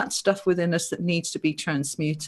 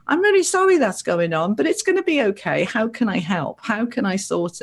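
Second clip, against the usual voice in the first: compassionate reply; 3 semitones higher than usual. Retold or imitated. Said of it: "No reaction, okay, other than compassion".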